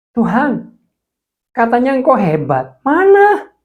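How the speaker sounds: loud, high, anguished accusation at God; angry outcry. Retold or imitated. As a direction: cry out at God, demanding an answer. Accusing God after bankruptcy. (teriakan marah kepada Tuhan)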